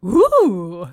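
long loud airy "ooh"; a happy ghost's drawn-out ooh. Shown as a demonstration. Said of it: "That sounds like a ghost who is very happy about a nook".

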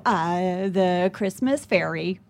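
slow, stalling answer, a hint of panic; caught off guard. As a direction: drag it out like you're inventing it on the spot. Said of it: "I was deer in headlights".

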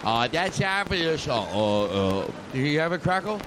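lightly voiced Boston politician; J F Kennedy. Comic warms up a presidential impression for the crowd, lightly accented. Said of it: "I'll sound like J F Kennedy right now".

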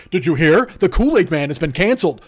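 lightly voiced gossip; mock gossip. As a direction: lean in like sharing scandal.

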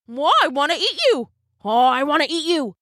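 greedy big dog; shaggy dog voice. A narrator's reading. Dog character speaks.

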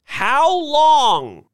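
high, loud frightened demand; old ladies crying out in alarm. A narrator's reading. Ladies protesting and trembling.

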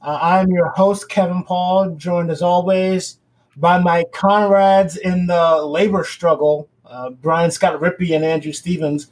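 muffled through a mask; talking behind a face mask. Real, not acted. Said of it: "K P is also speaking through a mask".

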